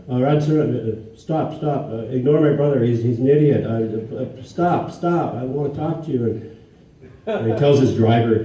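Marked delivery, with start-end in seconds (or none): 0.1-6.2 pleading call. Retold or imitated. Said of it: "and I go".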